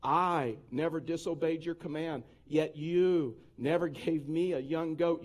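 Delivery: slow, drawn-out, mildly whiny reading; whiny complaint. Acted. Older son complains to his father, mildly whiny. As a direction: read it as a lightly aggrieved older son. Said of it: "like, a whiny voice".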